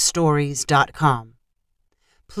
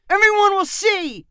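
embarrassed panic; 13 semitones higher than usual. A narrator's reading. Embarrassed boy panics about privacy.

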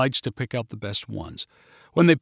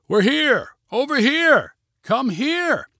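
calling out; 10 semitones higher, slower than usual. Acted. Max calling for rescue in the maze, shouting. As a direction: call out to be found in the corn. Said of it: "he called".

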